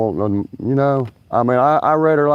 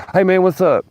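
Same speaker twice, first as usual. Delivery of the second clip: high mock greeting; 10 semitones higher, 4 dB louder than usual. Pop star greeting, voiced high.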